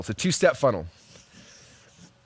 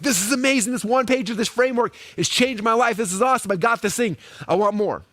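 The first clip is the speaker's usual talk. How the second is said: higher, thrilled fan gushing; excited customer; 6 semitones higher than usual. Pretend. Imagined customers raving about the framework, thrilled. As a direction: sound hooked and hungry for more. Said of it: "people are like".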